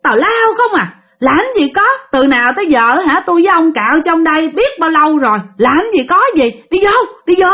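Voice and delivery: high-pitched, dismissive scolding; snapping back. Acted. Wife dismisses husband's ghost scare, high impatient scolding. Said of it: "mẹ của bạn mới nạt lại".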